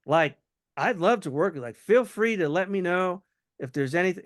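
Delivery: casual, winding-down sign-off tone; offhanded, about to leave. Shown as a demonstration. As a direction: sound like you're heading to your next call. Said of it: "a subtle tone of, like, I'm about to go on my next call".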